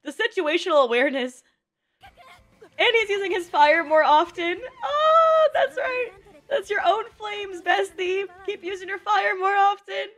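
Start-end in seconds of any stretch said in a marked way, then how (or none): 4.8-10.1 higher-pitched proud gushing; gushing encouragement. Real, not acted. Viewer praising character for using own flames, gushing encouragement. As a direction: cheer a favourite on in a high voice.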